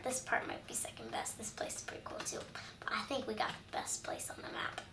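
whisper. Acted. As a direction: whisper it like a secret.

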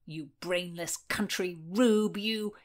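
slow, mildly outraged name-calling; angry insult. Acted. Nephew abusing his uncle, angry insult. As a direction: draw out each insulting word.

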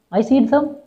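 put-on I see them said high in a child's voice, the mistake; the boy's wrong version, I see them; wrong grammar take. Shown as a demonstration. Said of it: "Not see them, ma".

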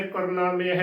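ਕਰਨਾ, ਮੇਹ as korna-mehe, run together; joined pronunciation. Shown as a demonstration. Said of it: "ਇਕੱਠਾ ਹੀ ਉਚਾਰਨ ਕਰਨਾ ਹੈ".

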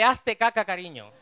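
shouted birth cry. Retold or imitated. Birth cry quoted again.

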